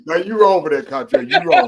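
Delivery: loud, high amused scolding; cracking up, voice jumping high; laughing protest. Real, not acted. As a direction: protest the tease through laughter.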